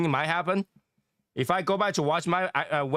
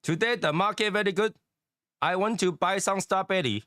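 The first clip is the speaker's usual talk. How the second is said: put-on Asian accent; 4 semitones higher than usual. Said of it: "That's why I can't be a comedian".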